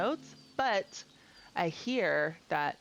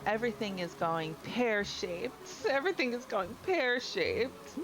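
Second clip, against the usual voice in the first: lightly voiced mayor, somewhat higher and fretting; a touch of a distraught village mayor; worried mayor; 4 semitones higher than usual. Reads the mayor's lines.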